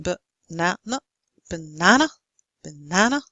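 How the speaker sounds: "banana" with weak schwa first and last syllables; schwa in unstressed syllables. Shown as a demonstration. Teacher repeating a word to show the schwa. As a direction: repeat "banana", stressing only the middle. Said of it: "the speech sound that we use in unstressed syllables".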